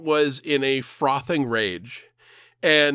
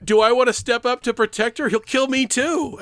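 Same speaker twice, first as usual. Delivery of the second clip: retold panic; 7 semitones higher than usual. Retold frightened inner thought.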